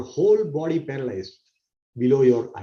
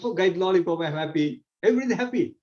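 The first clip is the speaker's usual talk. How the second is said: put-on higher, gleeful kid voice; childish glee; 5 semitones higher than usual. Teacher acting a child delighted by a lollipop. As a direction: squeal over a lollipop. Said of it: "So we feel".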